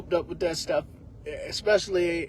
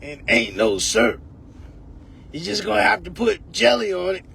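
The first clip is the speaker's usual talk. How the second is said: gruff grandma. Retold or imitated. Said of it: "a voice like that".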